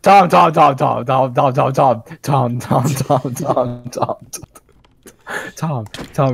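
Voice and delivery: loud, high, repeated calling. Real, not acted. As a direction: call his name over and over.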